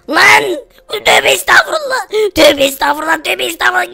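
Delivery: sudden high alarmed cry; shocked outburst; startled exclamation. Acted. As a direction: jump at the sight of it. Friend startled by creature.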